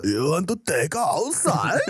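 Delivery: tough guy. Pretend. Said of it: "seventies slang".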